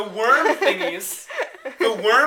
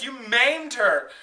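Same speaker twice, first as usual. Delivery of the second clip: slow, higher-pitched mock accusation; mock outraged accusation; 5 semitones higher, much slower than usual. Dad confronts mom, acted.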